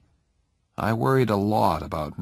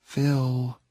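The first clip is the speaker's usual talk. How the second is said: gently; 4 semitones higher than usual. A narrator's reading. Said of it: "said Jenny gently".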